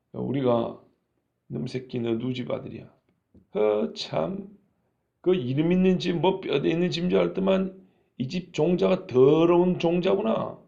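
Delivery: mocking village-elder scolding in country dialect; old rural elders' dialect. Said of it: "옛날 어른들 말투 흉내낸 겁니다". (시골 어른 말투로 비웃는 욕)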